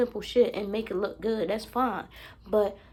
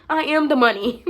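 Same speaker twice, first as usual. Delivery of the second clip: laughing, loud; 2 semitones higher, 9 dB louder than usual. Real, not acted. Laughing self-proclamation.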